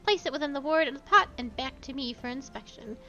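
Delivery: barely contained glee of a self-important apprentice; excitable pompous pupil. Acted. Hashikawa greets the player he will guide, excited and pompous.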